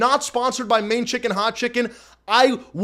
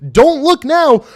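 higher, louder, slow dramatic tease; hyped tease; 6 semitones higher, 7 dB louder, slower than usual. Acted. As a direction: build suspense for the chat.

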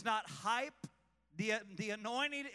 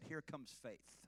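quiet call; 5 semitones lower, 10 dB quieter than usual. Shown as a demonstration. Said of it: "Say it".

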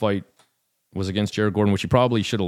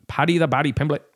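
higher-pitched, badly faked Liverpool accent; terrible Liverpool accent; 6 semitones higher than usual. Shown as a demonstration. Fight fan announcing Paddy's nickname in a terrible Liverpool accent. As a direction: put on a bad Scouse accent. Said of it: "that was my terrible, uh, Liverpool accent".

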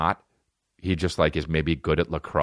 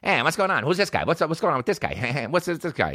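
bro voice; 8 semitones higher than usual. Retold or imitated. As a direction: hype bro greeting everyone. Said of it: "he's like".

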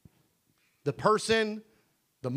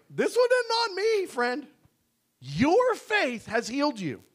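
casual Jesus; 5 semitones higher than usual. Acted. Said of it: "Jesus is like".

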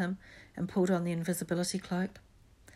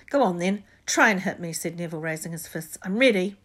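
challenging; 7 dB louder than usual. Acted. Neville challenging to fight.

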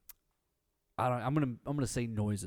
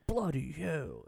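put-on British accent; 4 semitones higher, much slower than usual. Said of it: "He's like".

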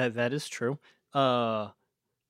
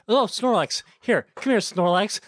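excited; 5 semitones higher, 4 dB louder than usual. Pretend. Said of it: "You're like".

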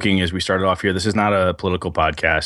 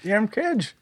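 put-on old prospector; 13 semitones higher, 5 dB quieter, slower than usual. Mocking old man staying up.

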